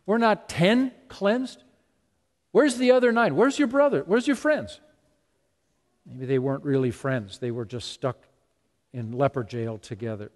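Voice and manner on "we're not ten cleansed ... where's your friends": higher, louder, searching questions; Jesus asking. Retold or imitated. Jesus asks where the other nine lepers are, raised and searching. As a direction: call out for the missing nine. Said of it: "Jesus said".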